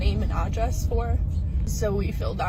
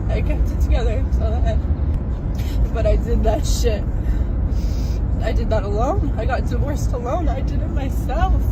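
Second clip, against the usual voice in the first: real tears spilling through the words; crying; 3 semitones higher than usual. Real, not acted. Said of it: "Oh, I can't stop crying".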